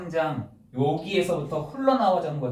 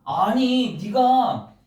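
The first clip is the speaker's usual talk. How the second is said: egging on; 8 semitones higher, 4 dB louder than usual. Retold or imitated. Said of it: "세상의 불신자들이 이렇게 하는 것이 옳아".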